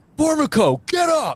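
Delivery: very high-pitched, top-of-the-lungs scream. Retelling how the company commander woke a recruit: imitating a commander screaming. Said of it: "would scream at the top of his lungs".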